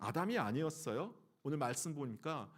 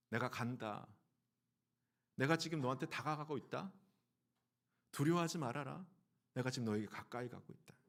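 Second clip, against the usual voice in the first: gentle reassuring God; 3 semitones lower than usual. Acted. God's voice voiced gently. (부드럽게 안심시키는 하나님의 음성)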